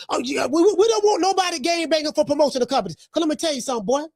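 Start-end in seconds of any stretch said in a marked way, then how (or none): none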